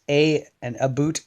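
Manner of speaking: "a" said as eh, "a boot" as a-boot; Canadianisms. Shown as a demonstration. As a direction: show off Canadian "a" (eh) and "a boot" for about. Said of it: "just to confuse those guys in America".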